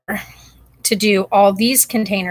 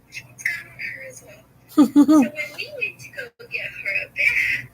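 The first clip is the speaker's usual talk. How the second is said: high tinny voice over phone; phone message; 12 semitones higher than usual. Real, not acted. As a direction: voice message playback. Played voice message from relative.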